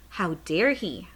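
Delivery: a shocked, unvoiced whisper of outrage; whispered indignation at the giant's threat; hushed outrage. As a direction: breathe it out in horror, barely voiced. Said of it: "Sophie cried".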